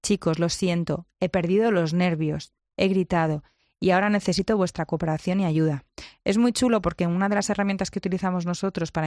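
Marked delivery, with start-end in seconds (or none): 0.0-5.8 humilde disculpa. Retold or imitated. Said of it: "utilizo esa humildad de reconocer mi error".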